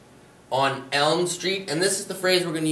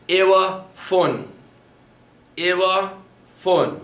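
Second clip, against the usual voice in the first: slow drill repetition; 3 semitones higher, slower than usual. Shown as a demonstration. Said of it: "across from something".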